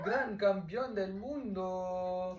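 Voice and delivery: grand entrance announcement. Pretend. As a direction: herald the dog like a champion. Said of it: "Let me give a grand entrance and grand welcome".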